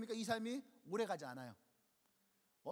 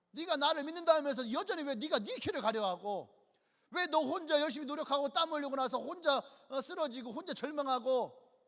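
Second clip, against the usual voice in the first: God's pleading rebuke; 2 semitones higher, 4 dB louder than usual. Acted. God addressing the believer.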